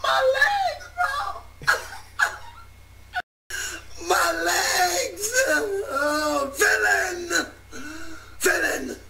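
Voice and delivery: anime hero in pain. Acted. Hero in agony, mock fight.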